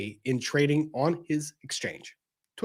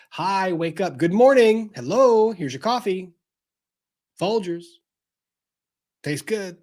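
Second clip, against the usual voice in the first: mock coffee-ad voice; 6 semitones higher, 4 dB louder than usual. Mock cheery coffee ad morning.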